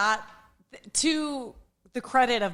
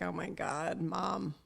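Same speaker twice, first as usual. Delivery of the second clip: mock eye-rolling exasperation; 9 dB quieter, slower than usual. Mother imitating her kids hearing about the podcast, mildly exasperated. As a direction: groan it lightly with an eye-roll. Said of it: "just roll their eyes and be like".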